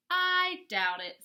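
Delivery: cocky wolf brushing off the threat; smug wolf. Acted. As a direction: toss it off with a smirk. Wolf mocks the pig.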